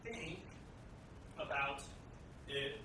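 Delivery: one word at a time, halting; staccato. Real, not acted. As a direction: drop each word separately, with pauses. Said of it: "one word at a time".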